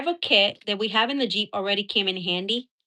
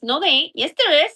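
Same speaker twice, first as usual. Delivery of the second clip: mock insistent back-and-forth, getting louder; retold bickering; 5 semitones higher, 5 dB louder, faster than usual. Retelling the fork argument with Johnny, mock insistent. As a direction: insist like a stubborn kid in a spat.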